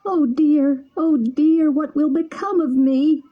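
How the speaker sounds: weeping bitterly. Acted. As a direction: plead with his friend through tears. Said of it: "weeping bitterly".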